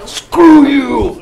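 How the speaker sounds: high loud fleeing yell; defiant shout. Acted. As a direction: yell it over your shoulder. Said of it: "He's gonna be like".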